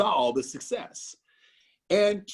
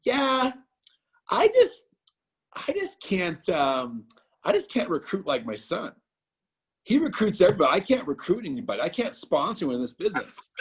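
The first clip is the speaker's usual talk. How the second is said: whiny mom; 3 semitones higher than usual. Retold or imitated. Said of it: "And she said".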